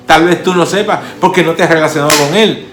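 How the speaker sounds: preaching altar call. Acted. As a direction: call them in with growing fervor.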